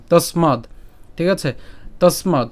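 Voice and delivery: তস্মাদ ending on a bare d; isolated teaching demo of তস্মাদ; clipped final consonant. Shown as a demonstration. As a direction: stop তস্মাদ at the d with no following vowel. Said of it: "দ হসন্ত পর্যন্ত উচ্চারণ করলাম".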